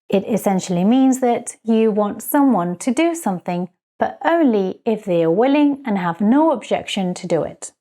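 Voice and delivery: ordinary talk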